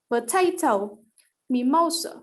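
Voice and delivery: "potato, mimosa" with the weight on the second syllable; middle-syllable stress. Shown as a demonstration. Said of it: "that middle syllable will be stressed".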